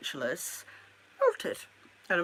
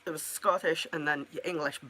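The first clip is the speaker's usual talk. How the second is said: mock Scottish accent, lightly done; half-hearted Scots, soon abandoned; put-on Scottish accent. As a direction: slip into Scottish for a joke. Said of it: "Don't let me do accents".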